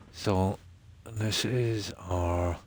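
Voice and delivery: talking around a cigarette; words slowed by a cigarette between the lips; cigarette in mouth. Real, not acted. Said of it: "you'll have to excuse my voice. I'm always talking with a cigarette in my mouth".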